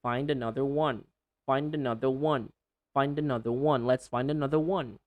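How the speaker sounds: "find another one" run together, D joined to "another"; fluent linking, falling end; linked words. Shown as a demonstration. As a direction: connect "find" smoothly into "another". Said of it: "Connect those two words".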